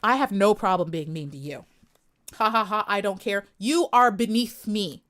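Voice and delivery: haughty queen sneering at a troll; mean. Shown as a demonstration. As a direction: talk down to them like they're beneath you. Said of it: "you wanna know what it seems like when I get mean".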